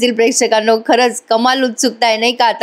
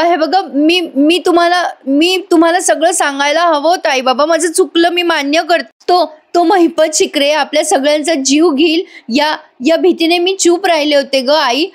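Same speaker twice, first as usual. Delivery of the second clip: much higher, stammering put-on sobbing plea; hammed-up crying apology; mock tearful confession; 6 semitones higher than usual. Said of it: "रडत रडत म्हणते". (आई बाबांसमोर रडत रडत नाटकी कबुली)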